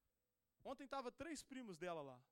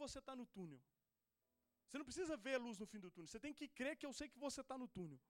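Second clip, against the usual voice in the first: gentle reassuring Jesus. Retold or imitated. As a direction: soothe him like a loving father. Jesus speaking comfort to him.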